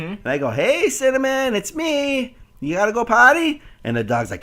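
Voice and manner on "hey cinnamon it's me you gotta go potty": high, sweet call to a little dog; high pet-talk coaxing. Retold or imitated. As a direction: coax the dog out gently.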